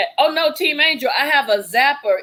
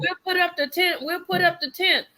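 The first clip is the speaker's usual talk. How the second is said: mock eager friends; 8 semitones higher than usual. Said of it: "And they were like".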